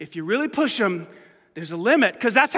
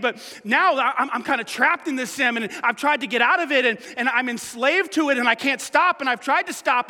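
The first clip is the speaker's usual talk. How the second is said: protesting sinner; 4 semitones higher than usual. Retold or imitated. Pastor voicing a sinner arguing with Jesus, pleading. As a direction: push back as the guilty listener.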